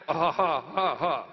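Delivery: low retold ha ha ha laugh; mocking laughter. Woodcutters laughing at the newcomer, mock laughter. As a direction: laugh down at the little man.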